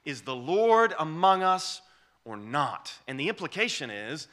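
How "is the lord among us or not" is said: loud, slow, sneering question; a scornful jab of doubt; grumbling challenge. Retold or imitated. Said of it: "That's their attitude".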